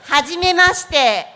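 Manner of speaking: Hajimemashite spoken loud and distinct for the class to copy; careful Japanese demo. Shown as a demonstration. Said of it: "Repeat after me".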